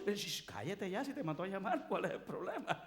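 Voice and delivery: hushing crowd. Acted. Crowd telling the blind beggar to hush, mock irritated. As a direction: shush him, annoyed.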